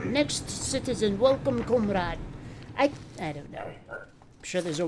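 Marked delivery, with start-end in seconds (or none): 0.1-2.2 lightly put-on Russian accent; mock Russian accent. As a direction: play a border guard with a rough attempt at a Russian accent. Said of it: "That is not how you do our accent".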